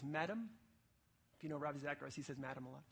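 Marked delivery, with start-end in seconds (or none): 0.0-0.5 quiet, thoughtful address; Ravi Zacharias. Retold or imitated. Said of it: "Ravi Zacharias quietly and thoughtfully says". 2.4-2.8 quiet, thoughtful imitation; Ravi Zacharias. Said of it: "and thoughtfully says".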